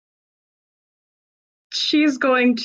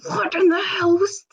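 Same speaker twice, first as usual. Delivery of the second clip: higher, clipped exasperation; exasperated; 11 semitones higher, faster than usual. Acted. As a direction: snap back in disbelief. Dolma exasperated.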